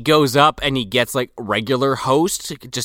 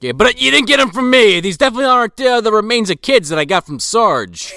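sly mock whisper-aside; 8 semitones higher, 4 dB louder than usual. Voicing Jake handing bones.

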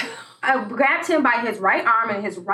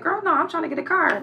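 mock sassy; 7 semitones higher than usual. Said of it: "I said".

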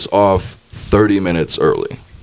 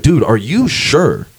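doubtful; much slower than usual. Retold or imitated. Doubting the handler a third time.

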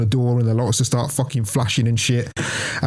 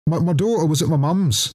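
excited correction; 7 semitones higher than usual. Real, not acted. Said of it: "I tell a lie".

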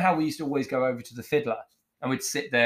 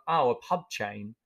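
slow, condescending put-down; mean put-down; slower than usual. Retold or imitated. Chef belittling a rival who bullied a waitress, mean and slow. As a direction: draw it out with mean disdain. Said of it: "And that's really mean".

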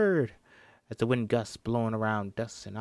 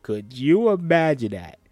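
excited; 5 semitones higher, 10 dB louder than usual. Real, not acted. Excited about Leonardo DiCaprio casting.

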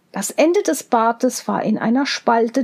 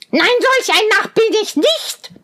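hohe, zänkische Zwergenstimme; zänkischer Zwerg; 9 semitones higher than usual. A narrator's reading. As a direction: giftig schimpfen wie ein Zwerg. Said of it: "schrie der Zwerg". (Zwerg beschimpft Rosenrot, hoch und zänkisch)

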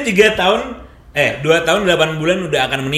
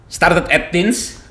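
slow deliberate English; 3 semitones higher, much slower than usual. Pretend. Slow mock English phrasing.

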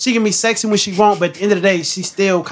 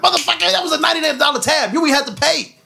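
higher-pitched, indignant retort; retold snapping; 7 semitones higher than usual. Boyfriend answers waitress over the unpaid tab, retold snapping. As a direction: snap back in an imitated argument, without raising the volume. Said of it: "I snapped at her".

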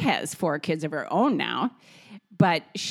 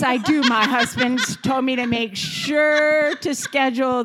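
higher, giggling through the words; retelling the castration request while cracking up; laughing insistence; 6 semitones higher, 4 dB louder than usual. Real, not acted.

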